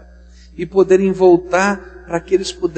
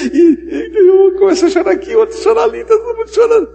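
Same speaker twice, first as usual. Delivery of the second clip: much higher, louder, ending in a shout; rising into a shout; 7 dB louder, faster than usual. Acted. Preacher painting the whole camp bursting into tears, shouting. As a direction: let the panic of the crowd carry you up. Preacher describes spreading weeping.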